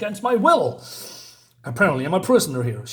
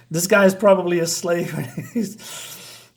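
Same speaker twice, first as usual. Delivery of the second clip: laughing; 2 semitones higher than usual. Real, not acted. Laughing at a comic panel.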